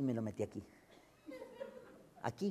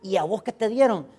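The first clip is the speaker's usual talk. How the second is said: high, loud gossipy asking; eager nosy question; 7 semitones higher, 11 dB louder than usual. Acted. One widow asking another about her gift, eager nosy question. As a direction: call it over to a friend, prying. Widows quizzing each other, acted.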